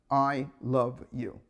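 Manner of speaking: slow loving words to yourself in the mirror; tender self-affirmation. Shown as a demonstration. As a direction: say it gently, like you mean it. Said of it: "say the four magic words".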